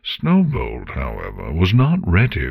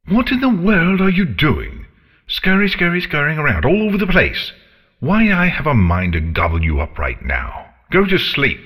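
high, loud scolding dragon; angry dragon; 10 semitones higher, 4 dB louder, faster than usual. A narrator's reading.

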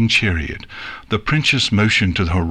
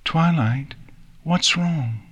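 gently ask, pitched up; gentle asking; 8 semitones higher, slower than usual. Acted. Nix asks tearful Twilight what is wrong, gently. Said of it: "asked gently".

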